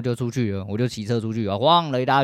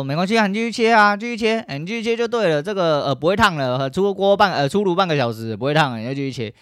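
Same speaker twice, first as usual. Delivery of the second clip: coaxing dad; 8 semitones higher, 4 dB louder than usual. Retold or imitated. Parents pranking daughter, dad voiced.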